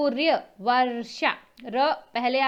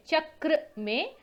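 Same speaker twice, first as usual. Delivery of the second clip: slow demo; 4 semitones higher, slower than usual. Shown as a demonstration.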